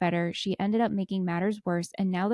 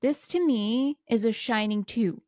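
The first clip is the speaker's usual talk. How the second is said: slow deliberate verdict; 2 semitones higher than usual. Real, not acted. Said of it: "glimmer of hope on it".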